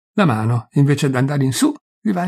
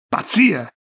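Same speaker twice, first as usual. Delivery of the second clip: raised, exasperated exclamation; almost angry; 6 semitones higher than usual. A narrator's reading. Bystander reacting to the story, almost angry. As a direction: dismiss it with a touch of anger. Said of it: "con un gesto quasi di rabbia".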